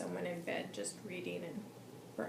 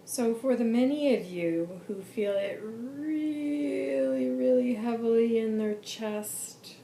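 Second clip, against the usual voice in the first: "really" stretched very long, higher and loud; drawn-out emphasis; 4 semitones higher, 10 dB louder, slower than usual. Retold or imitated. Reader addressing those who feel it heavily, drawn-out emphatic "really". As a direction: lean hard and slowly on "really". Stressing how heavily it is felt.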